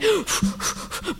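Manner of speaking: blowing out air to steady yourself; acted steadying exhale; bracing breath out. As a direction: puff out a nervous breath. Acts out bracing herself to go.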